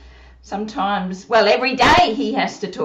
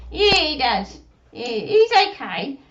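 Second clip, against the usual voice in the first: put-on squeaky childlike puppet; Susie puppet voice; 2 semitones higher than usual. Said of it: "does Susie practice".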